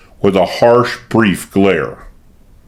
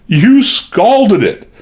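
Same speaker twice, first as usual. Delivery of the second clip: high, slow, louder wild cry; 11 semitones higher, 3 dB louder, much slower than usual. A narrator's reading. Maid accusing her mistress of scalding her, wild high cry. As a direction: cry it out wildly. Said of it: "cried Lizzie wildly".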